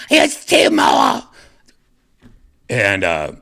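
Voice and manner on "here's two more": high, loud, slow helpful shout; eager stewardess. Retold or imitated. Stewardess running up with extra trays, high eager call. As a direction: call out brightly as you hurry up.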